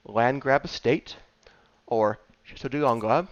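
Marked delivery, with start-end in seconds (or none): 2.4-3.3 fake French accent. Shown as a demonstration. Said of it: "in that terrible, fake French accent".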